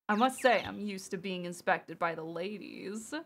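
put-on hushed, suave German accent; lightly put-on flamboyant German accent. Streamer trying out the character's line, soft German accent. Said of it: "I'm not gonna try to do a German accent".

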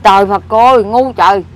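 real dismayed scolding; exasperated scolding. Real, not acted. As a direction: lament the loss, then snap the word Ngu loudly. Keeps scolding over lost money.

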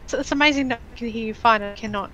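choppy robotic connection voice; glitchy lagging robot sound. Real, not acted. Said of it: "You sound like a robot".

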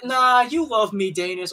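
mock a smug friend; mock teasing voice. Friend imagines host teasing him, slow high mock tease.

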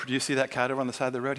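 low, quick, even murmur; voice in his head. Acted. The Lord asking about the cat, voice in his head. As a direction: drop the pitch and prompt him privately. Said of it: "he hears this voice in his head".

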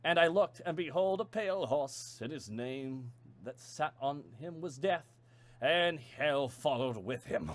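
slowing, portentous scripture recital; solemn recitation. Acted. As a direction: intone it like a prophecy of doom.

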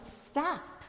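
restrained imitation of a shouting parent; mock parental shout. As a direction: imitate calling after children, held back from yelling. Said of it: "shout at the top of our lungs".

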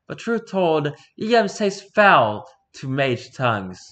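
theatrical Elizabethan delivery; Shakespearean dialogue. Acted. Lord and mage trading theatrical old English. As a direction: play it like a stage lord.

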